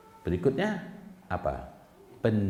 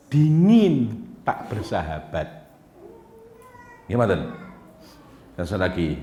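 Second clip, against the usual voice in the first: ordinary talk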